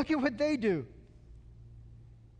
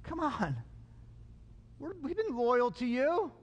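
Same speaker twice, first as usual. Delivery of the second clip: mock wheedling plea; lightly whiny, sucking up. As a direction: wheedle like a loyal underling. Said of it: "how they're kinda whiny".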